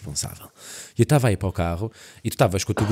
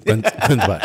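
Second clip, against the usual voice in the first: laughing mid-quote. Retold or imitated. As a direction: giggle through it. Quoting friend through laughter.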